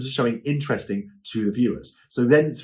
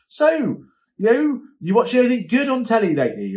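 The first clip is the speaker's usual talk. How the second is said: much higher, bright chatty question; casual host chat; 9 semitones higher than usual. Shown as a demonstration. Host drops casual small talk to viewers between items, bright chatty. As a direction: toss a friendly aside to viewers.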